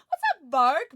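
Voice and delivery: high, loud burst of hello; thrilled, high-pitched hail; excited greeting. Real, not acted. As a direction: greet a friend with a sudden excited shout. Excited shouted greeting to viewer.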